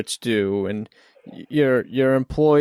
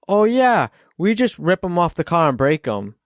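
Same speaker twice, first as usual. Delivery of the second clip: careless flippant reply; 4 semitones higher than usual. Retold or imitated. Front desk answers flippantly.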